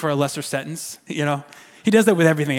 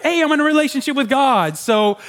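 higher, breezy imitation of someone making excuses; carefree mock believer; 5 semitones higher than usual. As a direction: play someone blithely letting themselves off. Mocking how some people excuse themselves.

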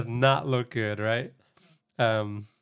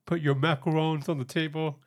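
imitated very American accent; 3 semitones higher than usual. Retelling the host's random line from the challenge, American accent. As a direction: quote it in an exaggerated American accent. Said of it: "said in a very American accent".

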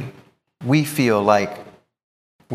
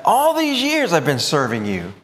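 plain; 4 semitones higher than usual. Retold or imitated. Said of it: "He says".

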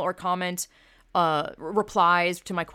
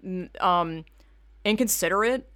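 slow offended complaint; 3 semitones higher, slower than usual. Retold or imitated. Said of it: "I'm like".

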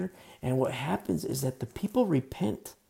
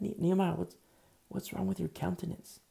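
higher, softer, gently worried; a king tenderly asking what is wrong; concerned king; 5 semitones higher, 3 dB quieter than usual. Shown as a demonstration. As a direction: ask with real care for his servant. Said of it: "He doesn't say it like that".

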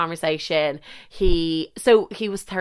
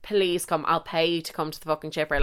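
pleading whisper; 3 semitones lower, 7 dB quieter than usual. Retold or imitated. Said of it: "and I was like".

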